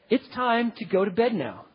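calm, cheerful statement of bedtime; matter-of-fact and cheerful. Shown as a demonstration. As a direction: state it brightly, no question. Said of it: "And you say it cheerfully".

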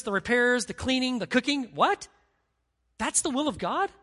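high, loud incredulous protest; mock disbelief. Worker doubting the preacher that chores are God's will, high and incredulous. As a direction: sound like you can't believe it. Congregant's incredulous objection voiced.

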